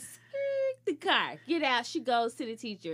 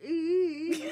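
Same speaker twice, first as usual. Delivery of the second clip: mock crying squeal; 3 semitones higher than usual. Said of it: "Don't do Nicole like that".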